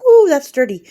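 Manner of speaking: mock scandalized. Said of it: "If we said the F word".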